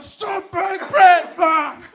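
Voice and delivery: very high strained shout; acted frantic yelling. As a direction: cry out wildly at high pitch.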